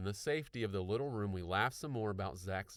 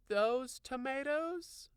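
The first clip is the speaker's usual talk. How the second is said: doubtful; much slower than usual. A narrator's reading. Puzzled question.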